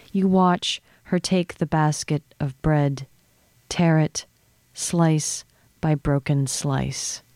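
slow, measured poem recital; unhurried literary reading, phrases falling at the end; poetry reading. Acted. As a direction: read it line by line, with deliberate pauses. Reads a poem aloud.

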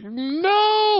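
very high-pitched mock dog voice; squeaky little refusal from a dog; refusing dog.

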